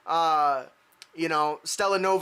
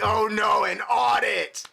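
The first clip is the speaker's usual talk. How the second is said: louder, hammed-up dismay; mock fear; 2 semitones higher, 4 dB louder, slower than usual. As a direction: play at dreading bad news. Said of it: "you can see fear in her eyes".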